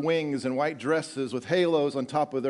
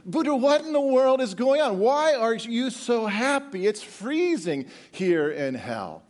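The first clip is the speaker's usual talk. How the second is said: high, incredulous outburst, slowing toward the end; acted exasperated disbelief, drawn out; bewildered Satan; 7 semitones higher than usual. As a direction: start high and baffled, then stretch it out. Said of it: "Satan's confused".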